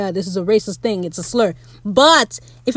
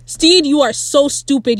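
higher, playful telling-off; exasperated scolding; 4 semitones higher, 3 dB louder than usual. Pretend. Viewer scolding a character who left his man, exasperated.

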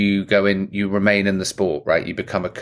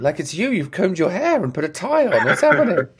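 high, puzzled detective voice; Lieutenant Columbo voice; 9 semitones higher than usual. Retold or imitated. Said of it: "That doctor sounding like Lieutenant Columbo".

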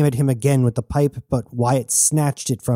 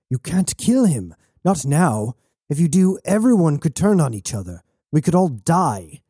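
higher-pitched, pleading warning; urgent warning; 5 semitones higher than usual. Acted. Bound prisoner begs captors not to kill, urgently. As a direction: argue as if lives depend on it.

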